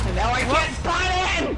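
frustrated shout. Real, not acted. Frustrated in game.

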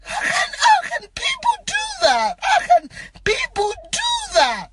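very high, wailing disbelief; tearful outcry. Real, not acted. Mourner asking how people could post it, crying. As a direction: cry the question out in real anguish. Crying over posted deathbed picture.

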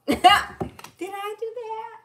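high, slow nerdy squeak; mock Urkel line. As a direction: play the clumsy nerd, drawn out. Playful Urkel-style quote.

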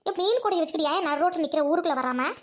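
put-on older woman voice. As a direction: speak like an older village aunt. Second woman, lower voice. (மீன் வியாபாரியிடம் பேசும் கிராமத்துப் பெண்மணி குரல்)

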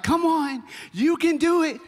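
high, loud cheer from the finish line; cheering crowd. Retold or imitated. People at the finish line urging the limping kid on, high and loud. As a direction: call out encouragement to the struggling runner.

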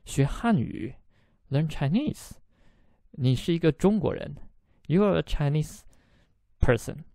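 retold disbelief, questions lifting upward; mildly incredulous man double-checking; surprised. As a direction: act out his puzzled surprise. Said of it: "So, so surprised".

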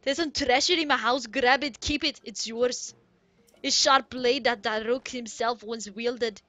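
loud Goron boss with faked Irish; unconvincing Irish brogue; attempted Irish accent. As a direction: read it hearty in a loose Irish accent. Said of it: "I'm trying to sound Irish".

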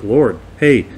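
imitated insistent pleading; acting out claimants pushing their credentials; emphatic. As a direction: press your case, mildly emphatic. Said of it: "They're emphatic".

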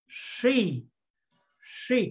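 She said with rounded lips and curled tongue; teacher modelling She with rounded lips. Shown as a demonstration. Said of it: "đọc là tròn môi cong lưỡi các bạn nhé".

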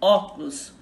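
"óculos" stressed on opening "ó"; stress on first syllable. Shown as a demonstration. Teacher giving a proparoxytone example, "óculos" stressed on "ó". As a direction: hit the "ó" of "óculos", let the rest fall. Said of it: "Onde está a sílaba tônica?".

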